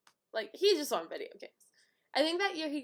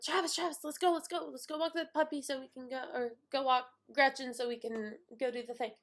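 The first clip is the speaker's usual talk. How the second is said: eager, quick pleading; bubbling over to get going; pumped-up kid; 3 semitones higher than usual. Retold or imitated. Little sister urging her brother to walk the dog, pumped up. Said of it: "I'm really pumped".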